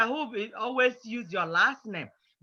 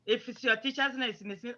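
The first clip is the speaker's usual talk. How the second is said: ordinary talk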